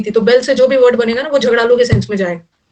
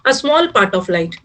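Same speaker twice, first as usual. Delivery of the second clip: slow dictation; 3 semitones lower, much slower than usual. Shown as a demonstration. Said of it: "पूरा light तो transparent है".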